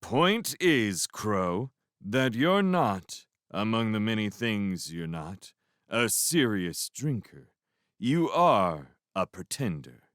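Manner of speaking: slow, each word pronounced clearly; carefully enunciated. A narrator's reading. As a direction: drunk trying hard to articulate every word. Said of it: "taking great care to pronounce each word clearly".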